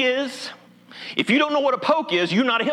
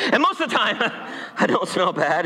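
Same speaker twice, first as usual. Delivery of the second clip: laughing through the line. Shown as a demonstration. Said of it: "You should have laughed louder at that".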